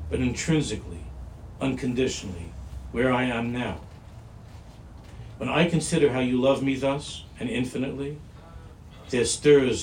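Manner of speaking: earnest, emphatic devotional reading; measured, sincere recitation with firm stresses; reading a devotional piece. Acted. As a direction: read it out like a heartfelt prayer.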